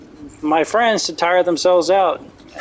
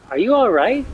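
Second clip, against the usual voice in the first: higher, put-on concerned voice; mock concern; 6 semitones higher than usual. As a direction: ask it with fake sympathy. Speaker calmly confronts the guard.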